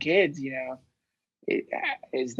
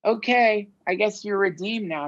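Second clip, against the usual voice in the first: higher, lightly voiced pushover judge; mock gullible official; 3 semitones higher than usual. The justice system mockingly forgives a killer, lightly voiced. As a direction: play a naive system letting a killer go. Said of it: "our justice system like".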